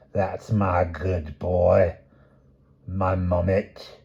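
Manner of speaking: grandmother fussing over her grandson, cooing; doting murmur. Acted. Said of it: "the old woman murmured".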